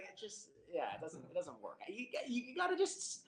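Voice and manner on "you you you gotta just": lightly voiced old-time announcer, high; a hint of a vintage radio host, pitched up; 1930s news broadcast voice. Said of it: "just talk like this".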